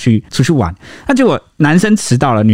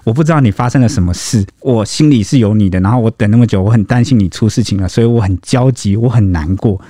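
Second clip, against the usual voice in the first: gentle I-statements; 3 semitones lower than usual. Retold or imitated. Girlfriend telling late boyfriend she was worried, gentle tone. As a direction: speak of your own worry without blaming. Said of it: "她改成那个I language的话".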